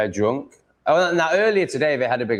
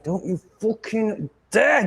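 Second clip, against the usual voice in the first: much higher, slow furious warning; a sharper, higher furious warning; angrier warning; 12 semitones higher, slower than usual. Real, not acted. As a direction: repeat the threat, angrier. Warning the cat off wire.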